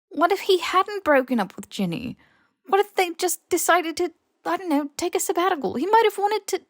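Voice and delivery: pushing, almost desperate, as the questions pile up; rising upset. A narrator's reading. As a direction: voice rising in anguished insistence. Harry pleads, growing upset.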